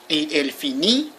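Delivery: "finit" ending on an open ee; silent final T. Shown as a demonstration. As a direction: say "finit" as fee-nee, no T heard. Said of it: "The T is not pronounced".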